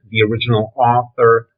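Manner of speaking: Arthur with a dropped R, Brooklyn style; Brooklyn accent. Real, not acted. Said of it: "excuse me, that's my Brooklyn accent".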